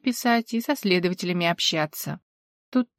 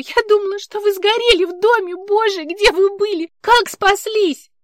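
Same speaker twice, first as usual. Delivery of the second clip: much higher, excited questions; overjoyed questions, much higher; breathless relief; 11 semitones higher, 5 dB louder than usual. Acted. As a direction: pour out relief. Polina relieved, overwhelmed.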